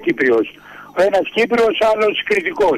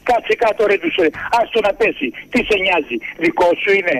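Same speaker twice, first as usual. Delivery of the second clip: retold angry snap. Cretan to panicking Cypriot on plane, mock angry. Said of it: "θύμωσε ο Κρητικός".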